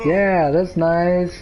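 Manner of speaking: slow, drawn-out hint of Grandma's way of talking; a touch of grandma's Spanish-accented drawl; lightly voiced grandma. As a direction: lightly imitate a grandma, stretching the words out. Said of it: "Grandma would be like".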